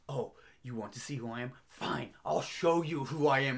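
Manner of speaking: lightly acted menace that swells; mock defiant reveal. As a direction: imitate a villain's taunt, building in force. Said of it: "where he's really doing it".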